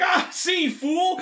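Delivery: high mock villain cry; lizard warrior. Retelling a comic, the lizard taunts the drow in a high voice. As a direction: sneer it out like a comic-book lizard. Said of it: "and he's like".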